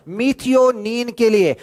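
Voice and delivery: "methionine के लिए" drawn out slowly; slow emphatic repeat. Shown as a demonstration. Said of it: "repeated slowly for emphasis".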